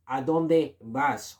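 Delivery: ¿A dónde vas? slowly repeated; slow model phrase. Shown as a demonstration. Teacher repeats ¿A dónde vas? slowly for learners. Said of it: "You have to say".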